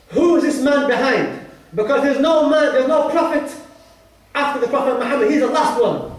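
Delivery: lightly acted surprise of a king; retold surprise. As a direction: voice the king's puzzlement, pitch lifted. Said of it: "We're surprised".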